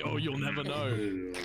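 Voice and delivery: slow, melodramatic line; dramatic voice. Retold or imitated. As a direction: play it like a soap cliffhanger. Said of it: "it was supposed to be for drama".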